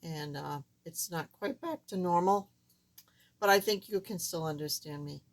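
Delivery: squeaky, recovering voice. Real, not acted. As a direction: talk with a voice still squeaky after surgery. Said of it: "please excuse my squeaky voice".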